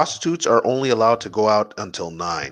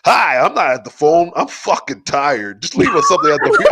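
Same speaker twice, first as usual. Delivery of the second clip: imitating Texan voicemail; 4 semitones higher than usual. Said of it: "he's all like".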